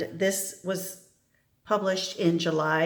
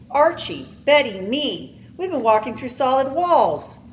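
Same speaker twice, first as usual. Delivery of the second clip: urgent pleading; 7 semitones higher, 4 dB louder than usual. Acted. Professor pleads his case.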